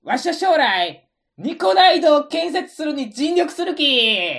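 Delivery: loud, bold Tosa dialect boast. Acted. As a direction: declare it proudly in Tosa dialect.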